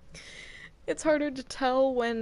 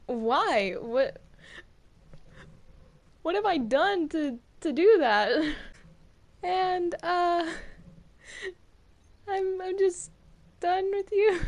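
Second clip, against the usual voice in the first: indignant; 5 semitones higher, 6 dB louder, slower than usual. Acted. Indignant protest at accuser.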